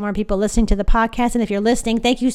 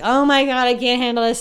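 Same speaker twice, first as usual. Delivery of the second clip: louder mock outrage at the candy; mock shock; 3 semitones higher, 5 dB louder than usual. Imagining crickets in Starburst, mock shocked. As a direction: overplay the horror, half joking. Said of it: "I'd be like".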